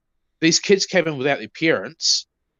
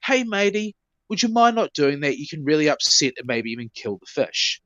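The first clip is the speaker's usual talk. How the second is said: friendly tone. Retold or imitated. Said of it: "in this tone of voice".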